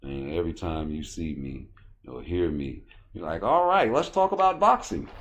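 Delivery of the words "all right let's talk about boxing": high, nasal-free prim voice pitched way up; put-on white guy. A man mocking a culture fan with a high put-on voice. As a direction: play a stiff culture-loving guy changing the subject. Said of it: "what if I love European culture".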